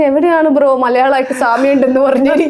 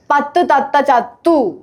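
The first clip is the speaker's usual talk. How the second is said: unhurried, word by word; slower tongue twister. Shown as a demonstration. Telling a friend slow is fine, unhurried. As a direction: give each word its own beat. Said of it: "മെല്ലെ പറഞ്ഞാ മതി".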